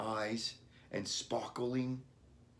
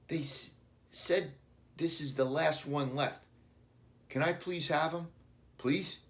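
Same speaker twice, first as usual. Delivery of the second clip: put-on pleading child; 6 semitones higher than usual. A narrator's reading. Billy pleading for puppy.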